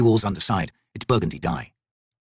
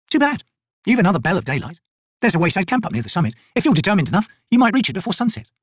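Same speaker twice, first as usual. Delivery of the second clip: higher, brisk soldier woman's voice; Picker, tough soldier; 9 semitones higher than usual. Acted. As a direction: voice the corporal, dry and sure of herself. Picker's voice in dialogue.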